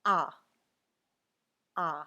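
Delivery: आ said as an open ah, said twice; teacher models आ for the letter A; French letter A. Shown as a demonstration. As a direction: voice the French letter name आ clearly. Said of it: "ए को बोलेंगे".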